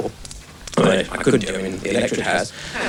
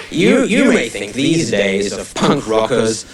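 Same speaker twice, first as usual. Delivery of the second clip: home counties Tory; much slower than usual. Acted. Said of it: "the sort of voice I'm gonna be attempting to use".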